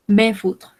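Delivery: "Me foutre" with the S left silent. Shown as a demonstration. Teacher repeats French for learners, silent S. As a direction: say "Me foutre" without any S sound. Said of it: "no pronunciamos la S de acá".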